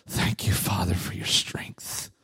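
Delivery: low, hushed whisper to God; whispered prayer. Retold or imitated. Overwhelmed man thanks the Father at his desk, whispering. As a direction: demonstrate a private whispered prayer. Acts out private prayer under pressure.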